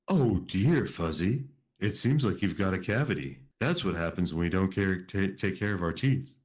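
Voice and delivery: a hint of a wise old owl; lightly voiced owl, gently scolding. First try at the owl, barely changed from narration. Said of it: "That's the voice you're gonna use for the owl?".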